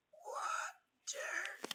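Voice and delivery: high, breathless rasp from a sick creature; mutated engine croaking out a plea; weak blurted word. Acted. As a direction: force the word out of a dying throat. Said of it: "he managed to blurt out".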